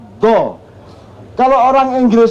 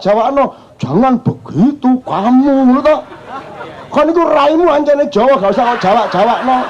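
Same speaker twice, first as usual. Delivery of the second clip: mocking TV celebrity; 2 semitones higher than usual. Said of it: "orang Jawa di T V mengejek Jawa".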